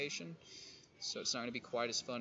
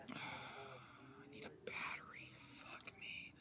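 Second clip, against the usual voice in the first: whisper; 16 dB quieter, slower than usual. Real, not acted. Muttering to self while playing.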